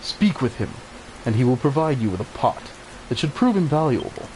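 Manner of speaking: lightly voiced elder, measured and solemn; a hint of a wise old guardian; wise old village elder. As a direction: read it like a kindly mentor giving orders. Elder's lines continue.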